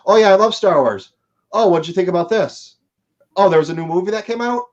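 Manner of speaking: lightly voiced oblivious customer, bright and breezy; clueless fan.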